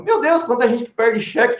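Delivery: bem mais agudo, exclamando maravilhado; espanto encenado. Retold or imitated. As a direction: como quem não acredita no que vê. Espanto com trezentos cheques perdidos. (espanto ao ver a pilha de cheques, bem agudo)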